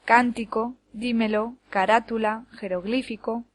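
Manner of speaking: Cántico, dímelo, carátula, jeroglífico, each stressed third from last; stress on antepenultimate syllables. Shown as a demonstration. Teacher gives examples of esdrújulas, Cántico to jeroglífico stressed third-last. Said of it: "van en la antepenúltima".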